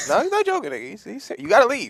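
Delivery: mock stern warning. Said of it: "Is he joking?".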